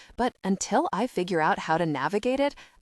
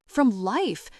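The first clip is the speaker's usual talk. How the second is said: yells; 4 semitones higher than usual. Acted. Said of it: "she yells at me".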